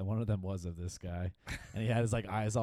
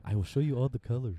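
mock Native American voice; 4 semitones higher, 5 dB louder than usual. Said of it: "You sound like a Native American".

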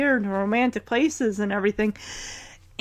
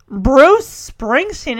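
irritated disbelief; 3 dB louder, much slower than usual. Retold or imitated.

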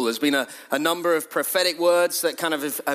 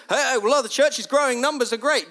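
mock smug churchgoer; 7 semitones higher than usual. Mocking a numbers-focused churchgoer.

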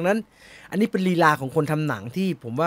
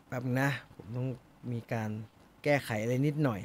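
off-mic murmur; 6 semitones lower, 12 dB quieter than usual. Real, not acted. Fixing something while speaking off-mic.

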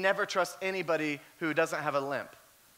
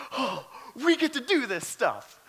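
laughing delight; 4 semitones higher than usual. Retold or imitated. Rookie thrilled by the fight.

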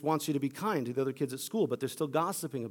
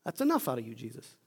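mock rebuke; 2 semitones higher than usual. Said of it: "I rebuke him".

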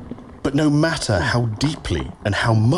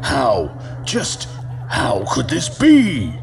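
confused disbelief; slower than usual. Acted. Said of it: "the god thought to himself in confusion".

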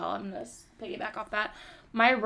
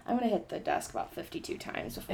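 stage fright; 6 dB quieter than usual. Real, not acted. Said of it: "I'm so nervous right now".

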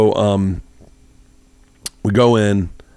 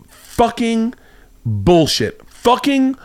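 high, sputtering mock fury; imitating angry rant; 11 semitones higher, much slower than usual. Retelling the angry woman who felt cheated. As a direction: spit it out like a furious woman. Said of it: "like, really angry".

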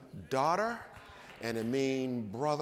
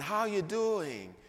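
friendly hello; 7 semitones higher than usual. Retold or imitated. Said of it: "how to just say hello".

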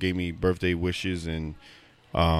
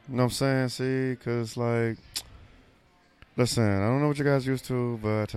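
lightly voiced proper English friend, pitched up; a hint of a very proper Englishman; upset friend's voice; 4 semitones higher than usual. Host mimics his friend for his co-host, lightly put-on proper voice. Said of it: "Yo, do his voice".

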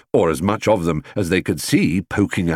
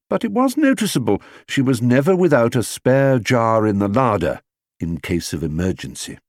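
ordinary delivery

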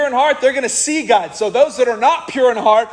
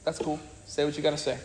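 calm letting go; 6 semitones lower, 11 dB quieter, faster than usual. Retold or imitated. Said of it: "You're gonna be like".

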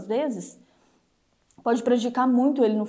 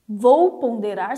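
slow deliberate pondering; 5 dB louder, much slower than usual. Shown as a demonstration. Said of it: "tem duas formas de você passar pela peneira".

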